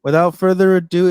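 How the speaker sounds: playful stage announcement; show announcer. Pretend. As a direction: build up the guest like a ring announcer. Mock announcer introducing a guest.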